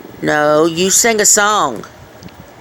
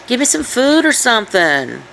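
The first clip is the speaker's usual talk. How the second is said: voicing the dog; 6 semitones higher than usual. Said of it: "He's like".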